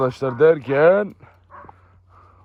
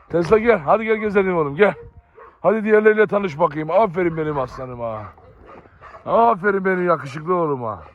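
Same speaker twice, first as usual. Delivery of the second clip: coaxing the dog. Real, not acted. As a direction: cheerfully urge the dog to follow.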